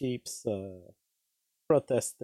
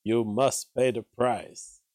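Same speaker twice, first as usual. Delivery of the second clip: mocking quote; slower than usual. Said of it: "by calling the government and saying".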